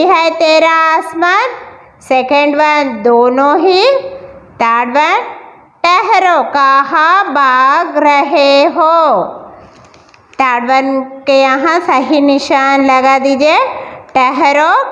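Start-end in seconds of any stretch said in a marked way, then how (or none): 5.8-9.3 slow, mild mock scolding as the lion; lightly voiced lion scolding the animals. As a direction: drag it out like a lion telling off the animals. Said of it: "शेर ने डांटते हुए कहा".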